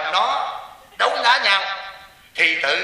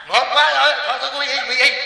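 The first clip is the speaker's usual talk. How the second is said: mock choking plea; 8 semitones higher, 3 dB louder than usual. Monk voices the choking husband giving in.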